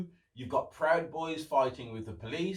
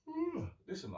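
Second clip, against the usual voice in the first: much higher squeal of surprise; sudden high ooh; startled high exclamation; surprised ooh; 5 dB quieter than usual. Real, not acted. Surprised exclamation before yawning.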